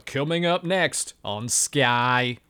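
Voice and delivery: slow, measured continuity announcer voice; mock television trailer read. Shown as a demonstration. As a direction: announce the next programme on air. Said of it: "BBC ... accents".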